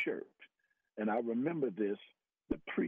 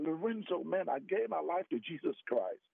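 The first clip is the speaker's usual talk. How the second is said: excited; 6 semitones higher than usual. Retold or imitated. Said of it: "I was so excited".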